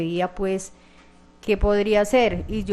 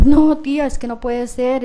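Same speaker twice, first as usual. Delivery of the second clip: retold disbelieving protest; 4 semitones higher, 7 dB louder than usual. Aunt quoting the mother refusing to suspect José, disbelieving protest. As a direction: imitate a higher, louder refusal, easing off.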